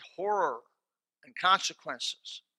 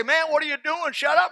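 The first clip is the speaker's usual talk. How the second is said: loud, high angry snap; mock angry neighbour on the plane; annoyed retort; 12 semitones higher, 9 dB louder than usual. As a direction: tell him off sharply. Man tells him shut up.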